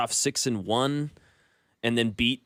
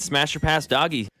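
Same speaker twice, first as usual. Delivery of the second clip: loud and punchy, higher; hyped drop shout; 4 semitones higher, 4 dB louder than usual. Shown as a demonstration. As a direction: shout the catchphrase like a radio drop. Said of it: "you wanna hear this drop".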